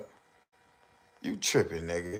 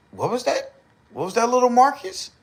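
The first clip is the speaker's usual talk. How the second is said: put-on high singsong coo at a baby; mock baby-talk voice; 13 semitones higher, 7 dB louder, faster than usual. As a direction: coo it up high like talking to a toddler. Mocking baby talk again.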